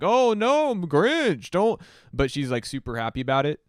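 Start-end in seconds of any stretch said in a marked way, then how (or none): 0.0-1.8 high, loud mock swooning woman; hammed-up coy woman pretending to object; mock protest. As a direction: squeal a fake protest you don't mean. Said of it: "and she's like".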